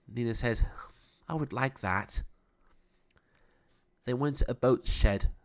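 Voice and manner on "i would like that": whisper. A narrator's reading. Nina whispering yes to Jack's boat ride. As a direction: breathe it out, barely voiced.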